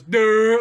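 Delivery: loud, drawn-out mock-dumb "duh"; imitating a vacant dullard; dopey grunt. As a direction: blurt a dim-witted noise. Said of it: "looks at him and goes".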